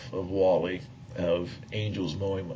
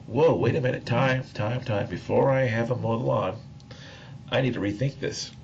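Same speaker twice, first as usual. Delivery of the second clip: startled stop; 3 semitones higher than usual. Retold or imitated. To the inner voice, catching himself before acting, startled. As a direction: pull up short, suddenly alarmed. Stopping himself mid-plan.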